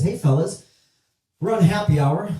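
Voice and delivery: a hint of a waitress; lightly voiced waitress. Waitress greeting customers.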